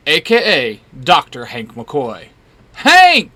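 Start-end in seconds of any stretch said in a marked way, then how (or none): 2.7-3.3 high, loud call of the name; sudden high, joyful shout; excited yell. A narrator's reading. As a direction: yell it out to a long-missed friend. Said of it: "Jean yells and runs over".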